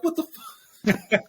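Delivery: slow, high, drawn-out what the fuck; mock shock, high and slow; stunned disbelief. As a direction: act floored by it, laughing through it. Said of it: "and you'll be like".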